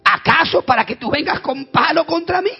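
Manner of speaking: high, slow, indignant taunt; offended giant's roar. Retold or imitated. Goliath scorning the boy with a stick, offended roar. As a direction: bellow it as an insulted giant.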